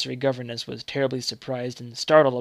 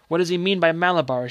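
anxious question; 5 semitones higher, 6 dB louder than usual. Acted. Mother asks her brother, anxious.

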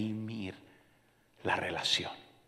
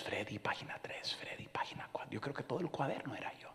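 hushed whisper; 16 dB quieter than usual. Real, not acted. Reading wife's prayer pages.

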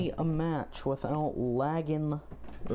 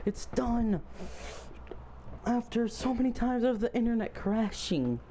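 squealing with overjoyed disbelief, rising higher; shrieking jackpot winner; 3 semitones higher, faster than usual. Real, not acted. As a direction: burst out like you just won big. Game finally installed, overjoyed.

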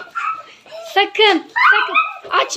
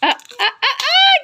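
high drawn-out dismay; watching the candy scatter; dismayed cries; 9 semitones higher, slower than usual. Real, not acted. Candy spills everywhere.

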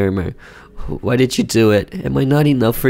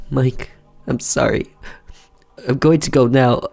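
wife leaving; 3 semitones higher than usual. Acted. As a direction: say you're going, trying to stay calm. Wife voiced higher.

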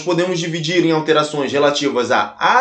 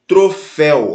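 "Troféu" split, landing firmly on "féu"; stress on last syllable; 4 dB louder, slower than usual. Shown as a demonstration. Teacher gives an oxytone example, stress on the end of "Troféu". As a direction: lean on the final "féu" of "Troféu". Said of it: "última sílaba".

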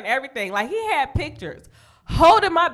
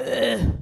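fake choking. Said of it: "act like you choking".

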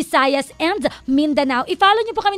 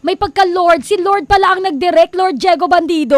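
louder playful ribbing; excited teasing; 4 semitones higher, 6 dB louder than usual. Real, not acted. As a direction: tease him with loud glee. Teasing about Lord director. (masiglang pang-aasar)

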